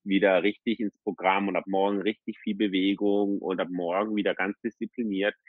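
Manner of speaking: low, half-hearted vow to himself; self-promising resolve. Retold or imitated. Driver promises himself discipline from tomorrow, lazily resolved. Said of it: "im Auto und mir gedacht".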